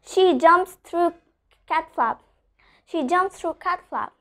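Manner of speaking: slow demo, T held back in "cat flap"; "cat flap" with the t swallowed before f; unreleased T. Shown as a demonstration. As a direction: stop the t in "cat flap" without releasing it. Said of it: "I'm not pronouncing the letter T".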